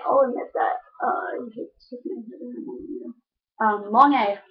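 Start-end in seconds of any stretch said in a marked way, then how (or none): 3.9-4.4 long flat A, Chicago style; Chicago accent. Shown as a demonstration. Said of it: "I use the long A".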